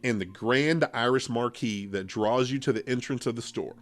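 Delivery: measured storytelling read; story narration. Acted. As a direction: read it like a spooky tale. Reads scary story aloud.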